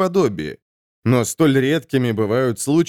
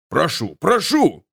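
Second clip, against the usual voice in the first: slow mock plea of a merchant; pleading cry; 3 semitones higher, slower than usual. Merchant Baltro begging the souls to stop, slow pleading cry. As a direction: cry out to calm the quarrel. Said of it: "вскричал купец Бальтро".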